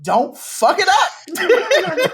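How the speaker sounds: high, loud, slow drag-host warning; drawn-out, theatrical catchphrase delivery; a drag host. Acted. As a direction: draw it out with diva flair. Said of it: "I'ma just say in my RuPaul voice".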